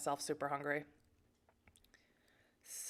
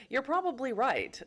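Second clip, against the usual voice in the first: laughing; 6 semitones higher, 4 dB louder than usual. Real, not acted. Laughing concession.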